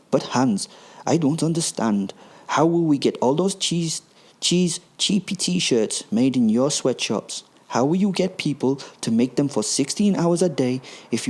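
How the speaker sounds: put-on high, fretful camp German accent. Gruber baffled by Hans's freedom plan, camp German accent. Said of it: "thick but very camp German accent".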